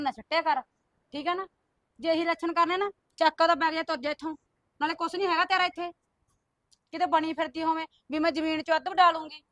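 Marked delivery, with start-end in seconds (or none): 2.0-9.4 sharp, raised scolding voice; ordering her to take the bag and go, angry. Acted. Sister-in-law throws her out.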